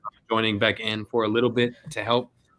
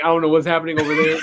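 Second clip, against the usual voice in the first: laughing shout; 3 semitones higher, 5 dB louder, much faster than usual. Retold or imitated. Laughing quote about braids.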